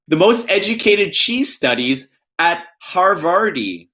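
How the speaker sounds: first take, slow, weighty punchline; pun reading voice. Pretend. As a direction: stress most, falling at Harvardy. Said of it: "I don't know which one sounds better".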